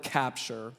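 "capture" said low and soft, set apart; word spotlighted. Shown as a demonstration. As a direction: linger on "capture" as the key word. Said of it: "Say that word".

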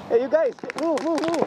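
urgent yell to move; shouting orders over battle. Real, not acted. Urging teammates during game.

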